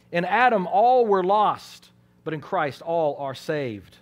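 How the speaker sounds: loud, slow, each word hammered; loud slow pulpit emphasis; emphatic preaching. Real, not acted. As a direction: proclaim it to the back row. Preacher drives home the contrast.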